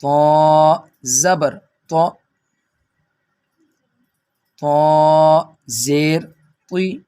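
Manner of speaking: طا and طی with a heavy emphatic t; full heavy sound. Shown as a demonstration. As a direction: spell out طا slowly, keeping the t full. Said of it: "اس کو پر پڑھیں". (پُر آواز میں طا کے ہجے)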